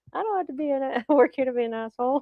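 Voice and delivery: quoting the line through real laughter; laughing while quoting. Real, not acted. Friend repeating the comeback, laughing. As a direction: repeat it, cracking up as you go. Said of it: "that's good".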